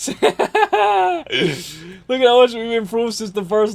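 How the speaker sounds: slow words through laughter; laughing while talking. Real, not acted. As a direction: laugh as you say it. Laughing at old video.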